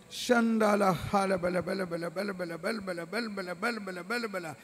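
rapid praying in tongues; fervent prayer. Acted. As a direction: let the prayer flow fast. Prays then speaks in tongues.

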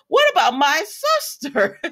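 slow mock outrage, laughing; mock indignation. Sister objecting to others' happiness, mock indignation with laughter.

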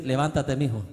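loud, high, ringing encouragement; voicing God to a repentant son, loud and uplifting; God's loving call. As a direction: lift him up with a booming fatherly voice. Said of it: "¿Sabe qué dice Dios?".

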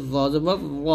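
"জ জবর র" with a thick, rounded emphatic z; heavy Za. Shown as a demonstration. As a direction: round "জ" toward a full "o", never a thin "জা". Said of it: "জ যদি আপনি মোটা না করেন". ("জ" মোটা করে)

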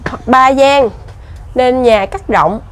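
slow, measured board reading; reading aloud. Real, not acted. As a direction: read out the sign phrase by phrase, slowly. Reads an information board aloud. (đọc bảng giới thiệu chậm rãi)

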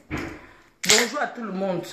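a slow, stretched-out hello; slow drawn-out greeting. Shown as a demonstration. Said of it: "same greeting said again".

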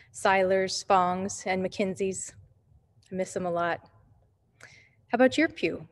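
echoey voice in an empty sanctuary; big hall echo. Real, not acted. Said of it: "If my voice sounds echoey".

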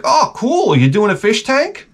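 excited pet store guy. Retold or imitated. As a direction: play the overexcited new employee. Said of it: "the guy was so excited".

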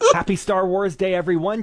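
stifled giggles. Real, not acted. Laughing through the first take.

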